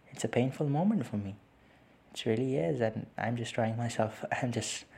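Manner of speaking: holding back tears. Real, not acted. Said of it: "trying not to cry on the podcast".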